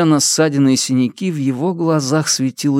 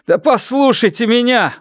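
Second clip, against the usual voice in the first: high, insistent call to listen; urgent plea; 11 semitones higher than usual. Acted. Фан Му sweating before the mob, urgent plea. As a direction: beg to be heard over a crowd. Desperate appeal to angry mob.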